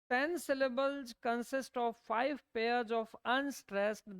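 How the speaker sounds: slow, even note-dictation pace. Acted. Teacher dictating notes to students, slow and deliberate. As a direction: read it out word by word so students can write.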